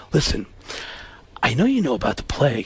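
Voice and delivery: quick, even, placating actor; Alec Baldwin. Retold or imitated. Actor explaining himself to his rival, low-key impression. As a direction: begin explaining, voice kept down. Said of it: "And he goes".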